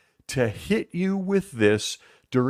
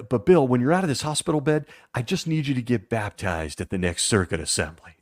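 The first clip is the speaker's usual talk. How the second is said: elder's voice; 2 semitones higher than usual. Retold or imitated. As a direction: lay it on thick as a pushy elder. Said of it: "in my elder's voice".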